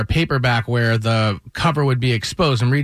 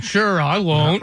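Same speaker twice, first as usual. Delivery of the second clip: sarcastic promise; 4 semitones higher, much slower than usual. Retold or imitated. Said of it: "I'm like".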